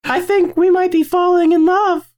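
very high mock-romantic falsetto; put-on girl voice. Confessing love to co-host in a girl voice. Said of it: "how long we can get you to do it like this".

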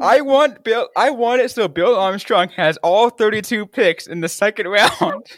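high, loud, gleeful squeal; excited. Real, not acted. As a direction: gush with giddy delight. Excited joking wish.

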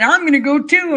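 lightly voiced boastful billionaire; a hint of smug one-upmanship; Bezos impression. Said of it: "Bezos said".

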